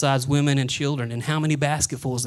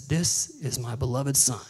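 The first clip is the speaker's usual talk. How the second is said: booming voice of God; 2 semitones lower, slower than usual. Acted. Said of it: "this voice booming from heaven".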